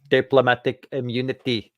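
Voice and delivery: put-on slow South African accent, sounds half Welsh; clipped South African drawl on the quote. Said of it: "That was my South African accent".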